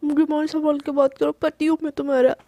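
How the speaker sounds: teasing mimicry of the husband's stern line; mock-stern imitation. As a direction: parrot his words back mockingly. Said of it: "Krishna की नकल करते हुए बोलती है".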